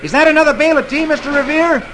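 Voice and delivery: high, fast wide-eyed lad; innocent boy. Acted. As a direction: ask with mock innocence. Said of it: "he asks innocently".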